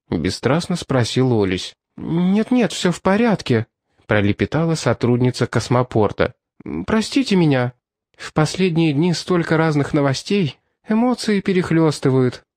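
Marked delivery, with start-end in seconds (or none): 2.0-12.4 flustered woman voice. Acted.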